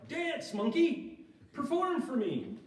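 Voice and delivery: high, loud, slow bellowed command; hammed-up demanding master; mock tyrant god. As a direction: bark it like a cruel showman. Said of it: "He's not like".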